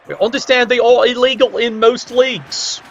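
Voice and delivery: most leaned on a little; stress on most. Real, not acted. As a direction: give the word most a slight extra push. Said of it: "I did stress the word most".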